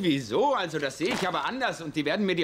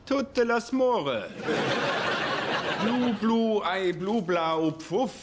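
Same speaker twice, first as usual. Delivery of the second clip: fake French gibberish; 3 semitones higher, much slower than usual.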